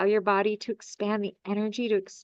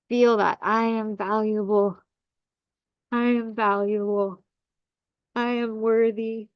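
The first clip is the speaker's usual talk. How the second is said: guided affirmation. Acted. Leads affirmations.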